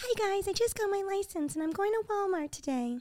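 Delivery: put-on tiny, very high, soft, hushed teen vlogger voice. Recalling her early high-school videos to the others: imitating her high-school video voice. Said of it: "And my voice sounds like this".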